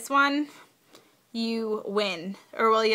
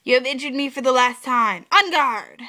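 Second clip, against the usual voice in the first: dramatic challenge; 2 semitones higher, 4 dB louder than usual. Acted. Reading a dramatic game card.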